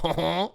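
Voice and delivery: little mock-French "honh honh"; imitated French flourish. Mocking Matt Damon pronouncing a French town name, imitated French flourish. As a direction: parody a French nasal flourish without words. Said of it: "he puts a little".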